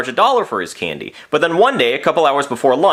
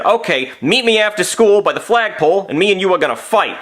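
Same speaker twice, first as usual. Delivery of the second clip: mildly acted angry challenge; retold schoolyard threat, lightly heated; pissed-off challenge; 3 semitones higher than usual. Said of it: "He was pissed off".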